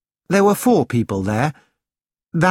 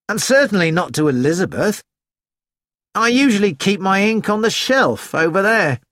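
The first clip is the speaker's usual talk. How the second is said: higher-pitched voice, insisting on innocence; lightly voiced cheeky Nigel; 3 semitones higher than usual. Nigel denying it to Missus Hubbard, lightly voiced protest. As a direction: lightly play a student protesting his innocence. Narrator plays Nigel, who likes annoying people.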